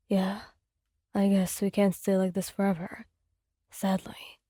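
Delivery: softly wistful, a little low; a hint of wistfulness. A narrator's reading. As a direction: let a touch of longing in. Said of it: "a hint of wistfulness in his tone".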